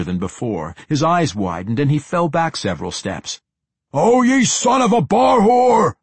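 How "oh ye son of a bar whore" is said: loud, high, slow shouted curse; furious curse. A narrator's reading. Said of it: "Athrogate cursed".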